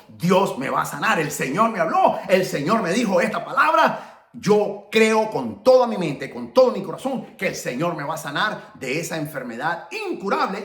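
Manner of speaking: emphatic declaration of faith; punched, insistent testimony; fervent testimony. Acted. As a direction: preach it with firm conviction. Preaches own testimony of faith.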